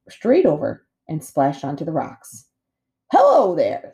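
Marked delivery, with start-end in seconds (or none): 3.1-3.9 friendly otter. A narrator's reading. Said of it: "said the brightest big otter".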